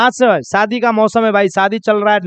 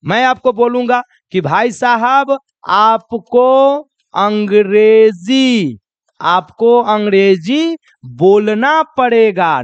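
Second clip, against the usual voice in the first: slow, emphatic insistence; insistent teacher; much slower than usual. Acted. Teacher insisting a student speak English, slow and emphatic. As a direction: press each word of the demand. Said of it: "जैसे आपको कहेगा".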